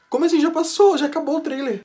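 high, loud startled protest; shocked disbelief. Real, not acted. Fan startled that the trailer has ended, disbelieving. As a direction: cry out that it can't be over. Trailer ends too soon.

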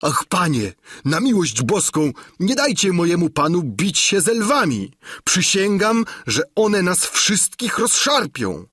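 frightened squire imploring the nobleman; trembling plea. Acted. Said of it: "cały drżący". (drżący, przestraszony Sancho błaga)

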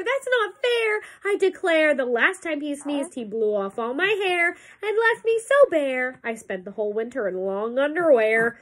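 grumbling bear complaining. Acted. Voices the bear.

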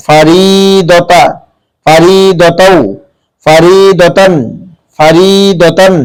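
ফারিদতা drawn out slowly with a heavy দ; ফারিদতা, দ read heavy, not as দা; heavy dad. Shown as a demonstration. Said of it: "দা উচ্চারণ করা যাবে না".

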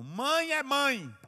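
loud, high, drawn-out exclamation; preaching cry. Real, not acted. Preacher tells the brothers what mothers are, crying out. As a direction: belt it out slowly to the congregation.

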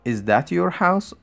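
slow and high, each word spelled out; deliberate classroom model sentence; slow model reading. Shown as a demonstration. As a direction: read it slowly and clearly for learners. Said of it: "teacher models the sentence again".

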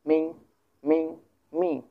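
teacher's rising-tone model of মিং; second tone on মিং. Shown as a demonstration. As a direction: lift each মিং upward as a demo. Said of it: "উচ্চারণ করবো নিচ থেকে উপরে".

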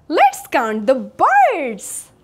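ordinary talk

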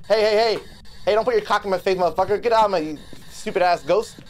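real exasperated yell at the ghost. Real, not acted. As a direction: tell off a rude ghost. Yelling at the ghost.

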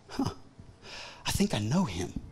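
low, soft thinking aloud; musing recognition. Acted. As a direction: mull it over quietly, as if to yourself. Servant girl puzzling over Peter.

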